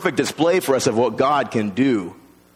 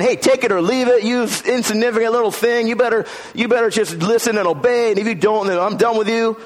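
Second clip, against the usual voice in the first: harsh God; 9 semitones higher than usual. Retold or imitated. Preacher mimicking a harsh God toward people, higher and harsher. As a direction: bark it like a cold, demanding boss. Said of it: "He's not saying".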